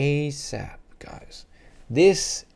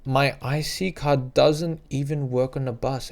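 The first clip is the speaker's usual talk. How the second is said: sudden dismay; 2 semitones higher, slower than usual. Retold or imitated. Realising card fails on bus.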